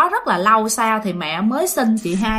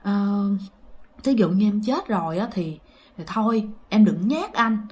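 fearful pleading prayer. Retold or imitated. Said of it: "Cái bạn mới van vái".

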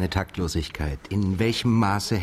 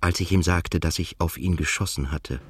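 story narration. Acted. First-person narrator describes his look.

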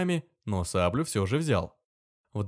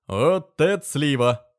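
admiring; 5 semitones higher, 7 dB louder, slower than usual. Acted. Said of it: "невольно восхитился".

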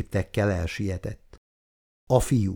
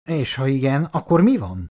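higher-pitched, mildly angry retort; 4 semitones higher than usual. Acted. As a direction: throw it back with a touch of anger. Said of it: "válaszolt dühösen". (kissé dühös visszavágás)

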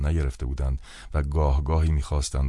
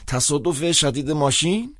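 put-on old priest; 9 semitones higher than usual. A narrator's reading.

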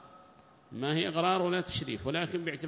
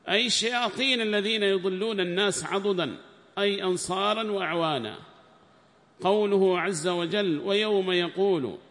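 raised, higher recitation voice for the quoted book; formal text reading; 6 semitones higher, 7 dB louder than usual. Acted. Sheikh reading the tafsir book aloud to students, raised formal reading voice. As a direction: declaim the commentary text like reading to a class.

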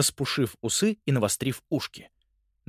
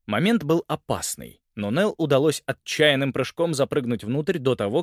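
ordinary delivery

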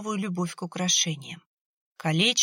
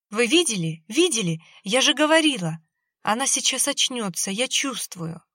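higher and louder, breathless joy; excited squeal; 4 semitones higher, 4 dB louder than usual. Acted. Mother sees her daughter stir, thrilled and loud. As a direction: burst out with sudden hope. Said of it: "Марина пискнула".

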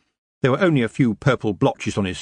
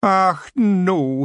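high, loud Scots wail; mock despair, wee man; wailing Feagle; 9 semitones higher, 4 dB louder than usual. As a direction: Rob wailing at Tiffany's tapping foot, high Scots. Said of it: "he wailed".

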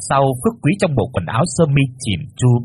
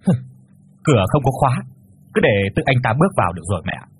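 dry scoff; faster than usual. Acted. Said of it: "cười nhạt".

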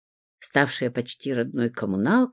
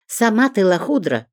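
loud higher retort; yelled back; 6 semitones higher, 4 dB louder than usual. A narrator's reading. Zinka yells the insult back at the neighbour, loud. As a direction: throw the insult straight back. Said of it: "закричала в ответ Зинка".

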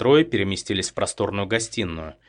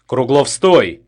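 high, loud order; commanding shout; 4 semitones higher, 9 dB louder, much slower than usual. A narrator's reading. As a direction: stop him in his tracks. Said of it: "приказала Петелина". (громкий приказ)

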